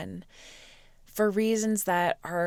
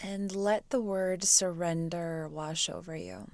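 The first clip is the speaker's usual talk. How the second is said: soft, unhurried meditation voice; guided meditation; 5 dB quieter than usual. Real, not acted. Teacher guides students to quiet the mind, soft meditation voice. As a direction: ease them into stillness with long pauses.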